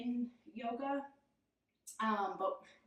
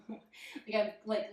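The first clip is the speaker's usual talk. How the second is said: laughing; slower than usual. Real, not acted. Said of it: "laughing at myself".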